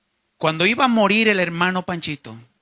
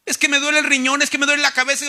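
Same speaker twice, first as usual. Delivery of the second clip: higher-pitched imitated griping; mock complaining; 5 semitones higher, faster than usual. Enfermo quejándose del riñón y la cabeza, mock complaining. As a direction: list the aches as a mock moaner. Mimicking a believer's health complaints.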